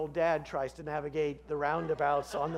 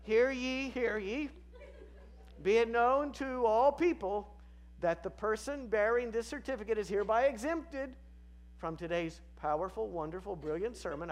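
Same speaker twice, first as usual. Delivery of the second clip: town crier; 5 semitones higher than usual. Acted. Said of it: "It reads as follows".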